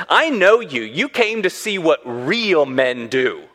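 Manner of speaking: chest puffed out, mock bravado. Older brother puts down little brother, puffed-up. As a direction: act the swaggering older brother. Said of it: "I'm sure he's puffing his chest out".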